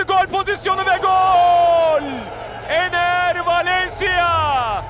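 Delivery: screaming football commentator. Real, not acted. Commentator calling a goal.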